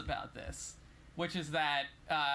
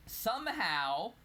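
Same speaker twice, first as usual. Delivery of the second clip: slow, high, drawn-out insinuation; pointedly suspicious; 6 semitones higher, slower than usual. Real, not acted. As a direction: stretch it out to hint something is fishy. Hints at a suspicious misreport.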